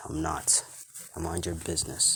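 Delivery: plain reading voice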